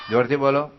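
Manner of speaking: shouted jોરથી બોલો; loud call. Real, not acted. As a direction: raise your voice to get them shouting.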